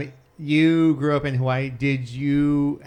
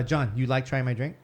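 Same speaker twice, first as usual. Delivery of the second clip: lightly imitated Hawaiian pidgin. Imitating a Hilo coworker offering her drink, light Hawaiian pidgin. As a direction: try a mild Hawaiian pidgin lilt. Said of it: "she said pigeon talk".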